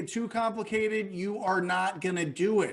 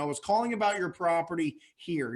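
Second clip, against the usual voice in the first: calling about your property here, a touch unsure; tentative, not pushy; a little hesitant. Shown as a demonstration. Coach demoing a cold call to a seller, hesitant. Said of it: "sound a little bit hesitant".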